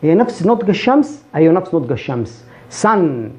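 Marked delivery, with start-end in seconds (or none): 2.7-3.3 سن with an open "a" and held n; fatha vowel. Shown as a demonstration. Teacher repeating sun correctly, fatha vowel. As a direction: say سن as "san". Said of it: "بتنطقها كأنها فتحة".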